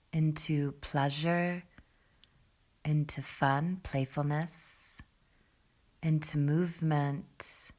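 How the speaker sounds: guided meditation. Acted. Yoga teacher leading students into breath below the belly, guided meditation. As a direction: ease them unhurriedly into the breath, pitched low.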